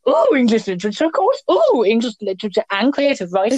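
high, gushing mock delight; bright mock-thrilled gush at each course name. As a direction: gush over the course like it's a treat. Mocking own excited reaction.

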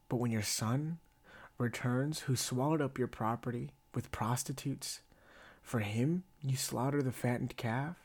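measured Bible reading with light indignation; scripture reading. Acted. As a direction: read the older brother's complaint from scripture. Reads scripture aloud.

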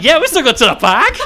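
put-on laughing Boston accent; "park" said as "pahk" with a laugh. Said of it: "they got a Bostonian accent".

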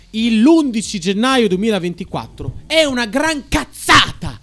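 shouting. Real, not acted. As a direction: yell it out in protest. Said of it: "Non urlare".

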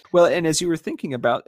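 laughing through the words; chuckling as she starts the question. Real, not acted. Laughing after a joke.

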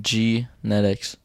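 sounding out. Shown as a demonstration. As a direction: stretch "Genetics" syllable by syllable, quietly. Sounding out word to spell.

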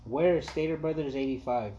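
slow, carefully spaced words; slow command to Siri. Shown as a demonstration. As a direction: speak slowly so the phone understands. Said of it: "Watch and learn".

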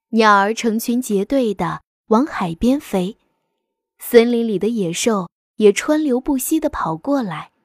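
gentle bedtime story reading; fireside storytelling. A narrator's reading. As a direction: tell it like a bedtime fable to children. Reads a fable aloud.

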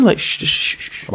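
repeated unvoiced shushing; soft bursts of shh; shushing noise. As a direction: make quick hushed shh sounds. Imitates noise, others laughing.

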